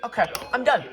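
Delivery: high, loud startled exclaim; startled outburst. Real, not acted. Jolted by the loud radio alarm, high startled outburst. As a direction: blurt it out, jolted by the noise.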